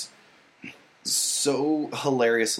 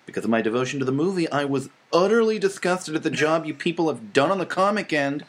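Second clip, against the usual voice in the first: nerdy voice; 3 semitones higher than usual. Pretend. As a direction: read it like an indignant nerd. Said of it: "You have to read it in a nerdy voice".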